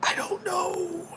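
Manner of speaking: very high, drawn-out, soft singsong; playful uncertainty. Pretend. Answering question on brand openers, high singsong cluelessness. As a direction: squeak it out slowly and softly.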